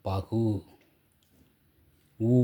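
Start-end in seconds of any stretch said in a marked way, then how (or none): 0.1-0.4 பகு with the final u held as a full oo; fully sounded u. Shown as a demonstration. Teacher showing the ending sounds in full, பகு with held u. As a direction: let the கு of பகு ring out completely. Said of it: "முழுமையா ஒலிக்குது".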